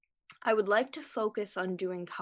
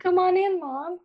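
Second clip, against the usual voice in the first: high loud call to mom; 12 semitones higher, 6 dB louder than usual. Real, not acted. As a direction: call out to her across the house. Calling out to mom.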